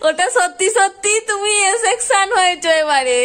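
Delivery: laughing through the reveal. Real, not acted. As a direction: laugh while telling. Mother laughs revealing truth.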